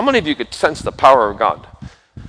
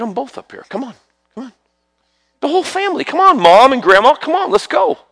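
much higher and louder, eager calling out; excited calling; 7 dB louder than usual. Real, not acted. Preacher calling mom and grandma forward, excited high calling. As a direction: call them up with excitement.

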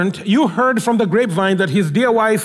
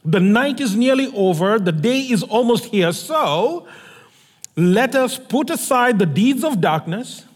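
measured, solemn Bible reading that fades at the end; scripture reading. Acted. Reads the Bible passage aloud.

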